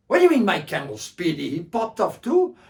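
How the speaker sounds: high, loud shocked question. Acted. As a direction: sound shocked and upset. Bedou shocked.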